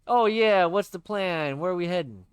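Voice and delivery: loud, bright pal voice; cheery buddy voice. Acted. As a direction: play the upbeat best friend.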